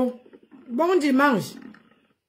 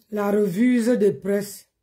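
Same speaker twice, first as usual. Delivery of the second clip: slow, careful; 3 semitones lower, slower than usual. Shown as a demonstration. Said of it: "C'est ce qu'on dit, non, en bon français".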